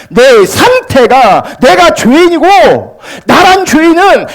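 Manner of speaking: high, impassioned, building pulpit cry; full-force preaching. Real, not acted. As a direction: hammer it out to the congregation.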